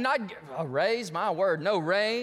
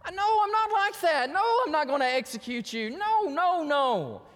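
high-pitched, mock-weeping reassurance; imitated tearful protest; 10 semitones higher, 3 dB louder than usual. Joseph weeping to his brothers, imitated tearful protest. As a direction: protest as if hurt, pitched well up. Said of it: "he's just weeping over it like".

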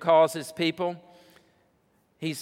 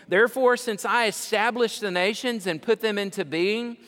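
booming preaching climax; 7 semitones higher, 5 dB louder than usual. Acted. Preacher thundering God's promises at the congregation, booming. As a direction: drive each promise home with full force.

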